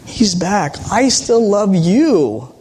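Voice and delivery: slow, gentle father pleading; tender father. Retold or imitated. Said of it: "He says".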